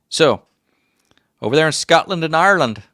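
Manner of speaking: put-on high, loud old prospector voice. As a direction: call it out like an old mountain man. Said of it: "by the old prospector".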